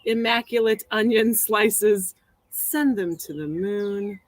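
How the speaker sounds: slow, drawn-out recital; phrase read aloud. Acted. Poet reading a phrase for a poetry hat, slow recital. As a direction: read it out slowly, stretching the last word.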